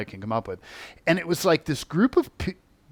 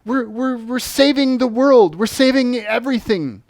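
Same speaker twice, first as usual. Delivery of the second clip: higher, loud, earnest voice of the being; captured being explaining itself loudly; being's reply; 9 semitones higher, 8 dB louder than usual. Retold or imitated. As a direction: answer like a zealot defending a cause. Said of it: "he said".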